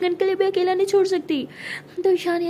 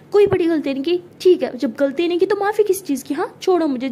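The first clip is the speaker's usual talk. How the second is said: angry; 3 semitones higher, 6 dB louder than usual. Acted. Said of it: "तो परी को बहुत गुस्सा आ जाता है".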